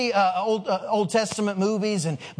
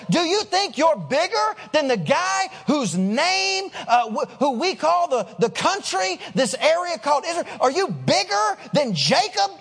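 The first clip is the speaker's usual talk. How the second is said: higher-pitched, emphatic disbelief; incredulous challenge; 4 semitones higher than usual. Acted. Woman challenges Jesus over Jacob, incredulous. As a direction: lean hard on the question, astonished at the claim.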